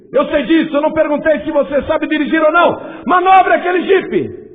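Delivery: a drill sergeant shouting down a nervous recruit; angry sergeant. Retold or imitated. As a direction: yell the order at the recruit. Sergeant yelling the order.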